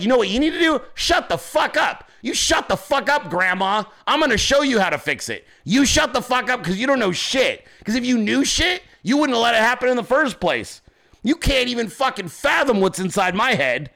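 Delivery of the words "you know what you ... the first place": mock angry rant. Ranting at an old generation.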